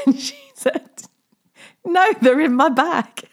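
high, laughing retelling; helpless amusement. Real, not acted. Retelling mum's hearing-aid excuse, helpless with amusement. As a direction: struggle through the punchline, laughing. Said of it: "it makes me cry just thinking about it".

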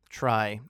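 "Try" set apart alone, firmly stressed; "Try" said alone as a pointed correction. Shown as a demonstration. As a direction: lean hard on "Try" as its own word. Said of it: "I stress the word try".

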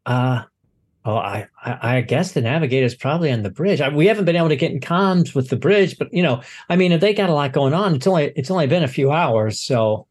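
lightly voiced, hesitant crewman reporting; flustered docking supervisor. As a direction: stumble through a report, relieved at the end. Supervisor answers about navigator.

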